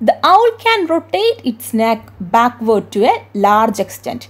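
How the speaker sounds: very slow, deliberate English read-aloud; textbook reading. Acted. Teacher reading the English textbook aloud to her class, slowly. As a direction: read the book's question out word by word.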